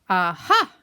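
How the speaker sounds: loud, punchy exclamation; pleased, loud aha; sudden discovery. Acted. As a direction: burst out as if you've found something. Pooh discovers the hole.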